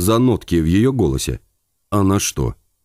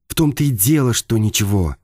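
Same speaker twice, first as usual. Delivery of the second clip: irritated; 2 semitones higher than usual. Acted. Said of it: "зазвенели нотки раздражения".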